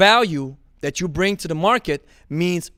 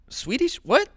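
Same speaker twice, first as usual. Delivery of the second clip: baffled what; 8 semitones higher than usual. Real, not acted. Baffled at Swedish claim.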